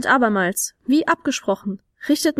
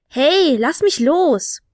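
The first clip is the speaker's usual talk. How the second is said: higher, drawn-out squeaky protest; squeaky little creature; 3 semitones higher, much slower than usual. A narrator's reading. Caught little creature ordering release, squeaky and indignant. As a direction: squeak an order like a tiny captive. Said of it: "befahl ein quiekendes kleines Geschöpf".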